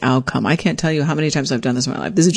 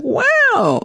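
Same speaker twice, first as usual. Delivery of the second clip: stunned. Retold or imitated. Stunned by the surprise dinner.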